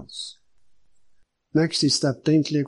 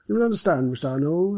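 higher-pitched superintendent character voice; genial superintendent; 5 semitones higher than usual. Acted. Superintendent explaining himself to the detective, genial character voice. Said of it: "said the superintendent".

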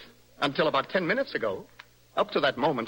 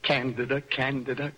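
repeating her name. Acted. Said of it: "Only to repeat your name a thousand times".

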